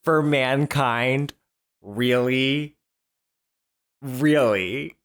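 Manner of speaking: slow, pointed disbelief; incredulous questioning. Real, not acted. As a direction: question it as if it's absurd. Disbelieving reaction to gushing praise.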